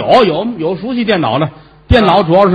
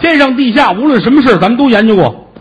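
grand boast; 7 semitones higher than usual. Acted. Boasting grandly about his research.

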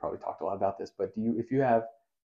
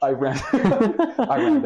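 high and slow through laughter; laughing; 13 semitones higher, 7 dB louder, much slower than usual. Real, not acted. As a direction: laugh the words out. Laughing at his own joke.

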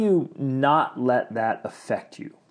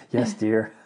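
meek henpecked husband. Pretend. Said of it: "I didn't mean to sound like that".

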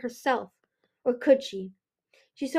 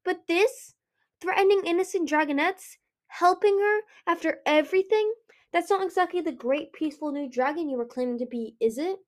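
high-pitched outraged challenge, easing at the end; shouted accusation; 7 semitones higher than usual. A narrator's reading. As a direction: start high and indignant, settle into a pointed question. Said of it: "Ruby shouted".

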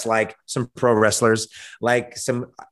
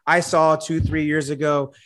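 higher, cocky trash-talk challenge; wrestling promo; 3 semitones higher than usual. Acted. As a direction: call out the rival like a heel on the mic. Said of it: "my promo that I'm cutting on The Rock".

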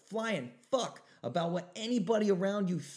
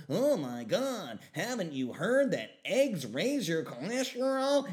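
mock critic voice; 2 semitones higher, 4 dB louder, slower than usual. Mocking critics of Clovis.

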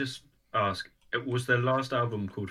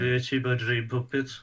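weak northern accent; 3 semitones higher than usual. Shown as a demonstration. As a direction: try a northern English accent, barely. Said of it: "That's not northern enough".

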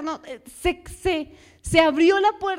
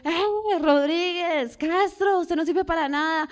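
mock scolding teacher; 3 semitones higher than usual. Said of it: "en el colegio".

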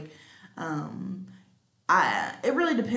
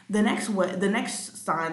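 stuttering restart of the phrase; stumbling false start. Real, not acted. Host losing the thread of the list, stumbling. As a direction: trip over the words and start over. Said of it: "I'm stuttering a lot today".

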